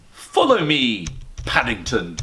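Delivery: Mr Brown leading. Acted. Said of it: "he said".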